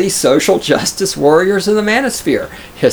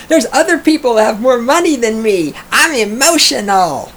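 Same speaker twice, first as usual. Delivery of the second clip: higher whiny mock voice; mocking whiny socialist; 7 semitones higher than usual. Streamer mocking socialists, higher whiny mock voice. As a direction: whine about other people's money.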